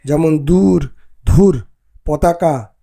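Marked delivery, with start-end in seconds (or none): 1.2-1.6 ধুর with a breathy aspirated dh. Shown as a demonstration. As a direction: push air into the ধ of ধুর. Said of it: "মহাপ্রাণ উচ্চারণের".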